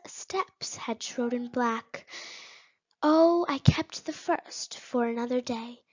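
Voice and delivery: measured verse reading with pauses; poem recitation. Acted. Student reciting Frost's third stanza, measured recitation. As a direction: recite the stanza evenly, pausing between lines.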